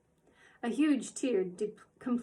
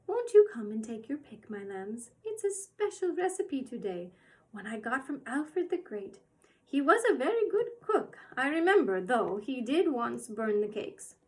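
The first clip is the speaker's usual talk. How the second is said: sweet coaxing; 3 semitones higher, 5 dB louder than usual. Acted. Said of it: "smiled and beckoned so sweetly".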